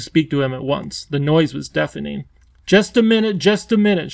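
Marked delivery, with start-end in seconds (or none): 2.7-4.1 high, loud call for a halt; shouting. A narrator's reading. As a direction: shout over the clamour in a raised pitch. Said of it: "shouted the Wangdoodle".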